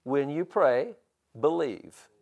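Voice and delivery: "pray" and "believe" set apart by a pause; measured reading that lets "believe." stand alone; deliberate emphasis. Shown as a demonstration. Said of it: "where did he put the emphasis?".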